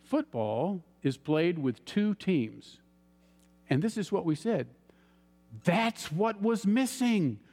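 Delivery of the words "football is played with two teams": slow, calm and unhurried, a gentle teacher. Retold or imitated. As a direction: let each word land slowly and calmly. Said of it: "very calmly said".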